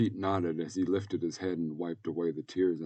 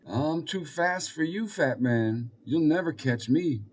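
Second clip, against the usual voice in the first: high, sing-out boast; taunting little boy; 8 semitones higher, 4 dB louder than usual. Acted. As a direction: taunt the fat man like a boy. Pete taunts the fat man.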